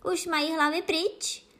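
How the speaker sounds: high-pitched calling out; velmi hlasitě. A narrator's reading. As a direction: call out high, demanding an answer. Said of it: "volala královna velmi hlasitě". (hlasité, vysoko položené volání)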